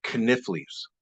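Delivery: "knifflies" with the k sounded, kuh-NIFF-leez; "knifflies" said kuh-NIFF-leez, set apart; grandmother's pronunciation. Shown as a demonstration. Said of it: "I'm gonna pronounce another word".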